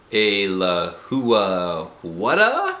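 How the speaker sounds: very slow baffled rise; puzzled. Acted. Junie B doesn't know the word, slow and baffled. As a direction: squint at the strange word.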